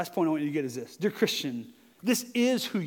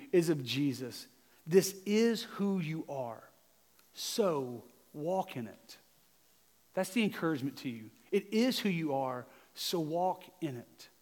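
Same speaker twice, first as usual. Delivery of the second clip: quiet sincere exhortation; 3 semitones lower, 6 dB quieter than usual. Real, not acted. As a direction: speak it close, like a personal word.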